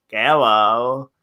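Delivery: muddled Russian-Chinese character accent; Russian-Chinese accent hybrid. Shown as a demonstration. Co-host demonstrating Juan Pablo, mixed Russian-Chinese accent. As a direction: give a brief mock Russian-Chinese accent. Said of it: "Russian, Chinese hybrid".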